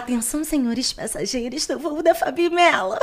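playful cabin announcement, laughing; flight attendant announcement. Pretend. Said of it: "Eu ia lá".

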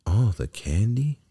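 high, rising, incredulous puppet voice; amazed question. A narrator's reading. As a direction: ask it in wide-eyed wonder. Pinocchio reacts to coachman's offer.

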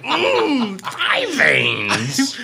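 high, far-off musing voice; a hushed, dreamy aside; dreamy creepy murmur. Retold or imitated. Daydreaming thought, acted.

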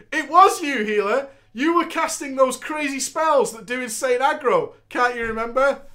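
lightly voiced Cena, accusing; voicing Cena. Cena accusing the healer, lightly voiced. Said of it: "Cena then said".

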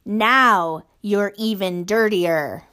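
slow, taunting giant's voice; mocking low rumble. Basil taunting tiny Measle, slow and rumbling. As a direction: savour each word slowly. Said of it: "his voice rumbling like a distant thunderstorm".

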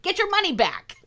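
squeaky exasperated plea; high-pitched pleading voice. Acted. Pleading with Trump supporters.

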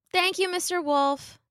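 put-on high-pitched little girl; Little Red. A narrator's reading. Little Red politely thanking the wolf, high girlish voice.

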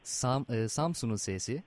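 letter by letter, naming a town for each; spelling it out. Shown as a demonstration. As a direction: spell it out like over a bad phone line. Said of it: "kodluyorum şimdi harfleri".

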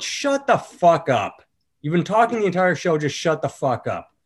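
mock snapping at the table, fading out; retold angry yell. Comedian on stage tells a noisy heckler to shut up, a mild mock yell. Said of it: "I just sort of yelled".

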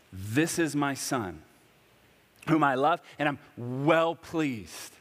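a mild mock booming voice from the sky; voice from heaven. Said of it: "this loud voice".

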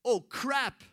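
a guard waking to open doors; startled guard. Acted. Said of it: "Il disait".

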